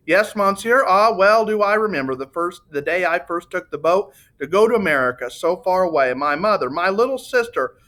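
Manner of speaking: a lightly voiced gushing Italian; voluble Italian salesman. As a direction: gush out memories like a proud salesman.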